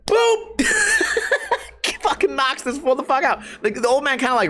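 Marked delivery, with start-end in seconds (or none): 0.1-0.7 high squeaky boop; playful high punch noise; mock punch sound. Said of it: "Mike Perry goes". 0.7-1.8 1 high burst of laughter. Real, not acted. Laughs at the knockout.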